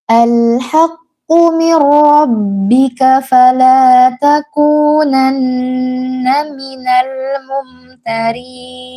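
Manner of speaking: slow, melodic Quran chanting; Quran recitation. Acted. Teacher reciting the verse for the mothers to follow, slow and melodic.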